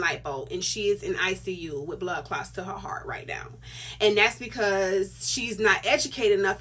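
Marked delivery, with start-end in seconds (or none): 0.0-3.5 hushed whisper. Real, not acted. Grim story about cousin's friend.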